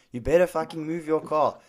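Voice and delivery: mildly acted threat with a firm push; retold swearing threat. Angry stranger orders pizza driver to move, retold swearing threat. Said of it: "he's swearing at me".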